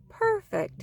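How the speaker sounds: delighted. Acted. Daddy Bear pleased with den.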